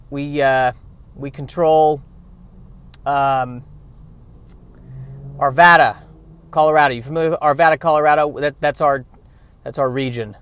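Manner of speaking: hesitant mobster bluff, lightly voiced; stall, then punch the place names like a pretend boss; fake mafia boss. Impostor claiming territory to mafia bosses, halting mock-boss bluff. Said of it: "trying to pretend to be a mafia boss".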